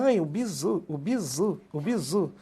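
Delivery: ladainha debochada, em sobe e desce; imitação debochada. Retold or imitated. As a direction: arremede quem repete um bordão, cantarolando. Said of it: "Algumas pessoas falam". (imitação zombeteira e cantarolada)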